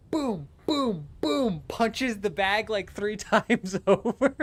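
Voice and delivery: high voice mimicking punches, drawn out; high-pitched reenactment. Retelling wife punching the bagged spider, high-pitched reenactment. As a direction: act out the blows in a high voice, breaking into laughter.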